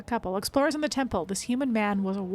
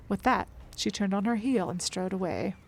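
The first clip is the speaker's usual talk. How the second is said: lightly done film noir narrator; noir detective. Acted. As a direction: read it like a hardboiled detective. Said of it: "film noir voice back on".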